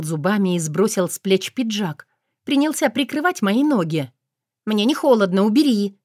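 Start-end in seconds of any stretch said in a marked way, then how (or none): 4.6-6.0 whiny spoiled pouty drawl. Acted. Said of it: "закапризничала я".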